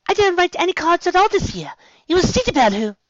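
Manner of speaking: high, loud surprised protest; startled denial. A narrator's reading.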